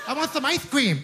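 high mock child, R's mangled; kid who can't say R. Comic imitating a twelve-year-old lisping "I want some ice cream".

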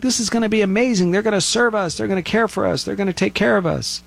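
high, fast, hammed-up gushing; mock giddy crowd. People boarding the alien spaceship, giddy mock excitement. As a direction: sell the naive crowd's thrill, tongue in cheek.

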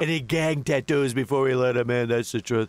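lightly voiced blustering president; a hint of a boastful US president, rambling; boastful president riffing on beef; President impression. Same president voice.

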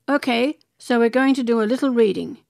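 put-on quoting a director in a Polish accent. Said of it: "in his Polish accent he goes".

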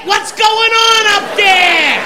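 annoyed shout from the back of a buffet line; impatient yell. Retold or imitated. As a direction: holler up the queue.

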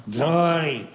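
lightly voiced dad, drawn out at the end; a touch of dad's voice, slowing down; dad's way of talking. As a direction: imitate an old-school father proudly announcing news. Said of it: "that's the way he talked".

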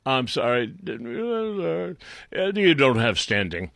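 court stifling its laughter; mocking amusement. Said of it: "so they laughed at him".

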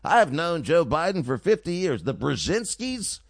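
mock cocktail-party host. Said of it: "talking like he was at a family cocktail party".

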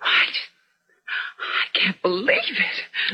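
slow, halting, close to crying; tearful disbelief. Acted. Woman hearing her young colleague may die, tearful. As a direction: struggle to get it out through tears.

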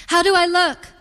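high, preening mother's voice. A narrator's reading. Mother posing half inside the car, preening. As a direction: pitch it well up, fishing for admiration.

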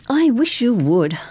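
put-on gently yearning girl; wistful. A narrator's reading. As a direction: say it longingly, drawn out. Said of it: "Cardi said wistfully".

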